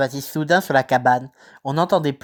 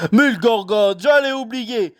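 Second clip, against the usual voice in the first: sudden exclamation, higher; exclaiming; 6 semitones higher, slower than usual. Acted. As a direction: slap the forehead, just remembered. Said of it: "s'exclama Hagrid".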